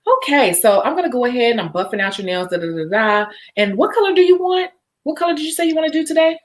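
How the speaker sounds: playing the salon tech, upbeat and friendly; nail tech role. Technician chatting to her pretend client, upbeat. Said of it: "pretend like you're my client".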